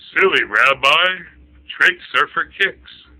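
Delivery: loud, slow ogre line; booming ogre voice. Acted. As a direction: boom it down from a giant's height. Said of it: "the ogre looks down at him and says".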